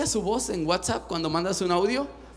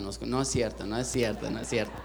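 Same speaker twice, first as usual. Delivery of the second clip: laughing; 11 semitones lower, 8 dB quieter than usual. Real, not acted. Takes back joke about age.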